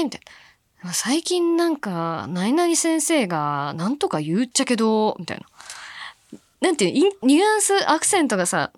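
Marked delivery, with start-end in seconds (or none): 0.9-5.1 slow, imitated schoolgirl grumble; complaining Hakata dialect. Hakata schoolgirl grumbling about a teacher, complaining. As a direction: draw out a gripe in Hakata dialect. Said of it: "文句言ってる風に聞こえるなー".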